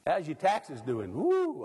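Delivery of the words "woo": startled woo. Real, not acted. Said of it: "I hit the bad line there".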